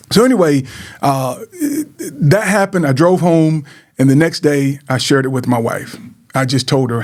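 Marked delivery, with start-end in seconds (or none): 0.1-2.9 laughing through tears. Real, not acted. Recalling the near suicide.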